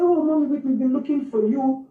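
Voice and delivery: lightly voiced staff member, easygoing and unhurried; calm, casual staff. Staff member calling out to Whitney's mother, casually calm. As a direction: say it as if nothing is wrong. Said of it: "He was so calm and casual".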